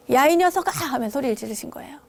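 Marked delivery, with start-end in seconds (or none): 0.1-0.7 retold thunderous shout. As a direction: bark it down the slope like a scolding master. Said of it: "벽력같이 소리를 질렀습니다".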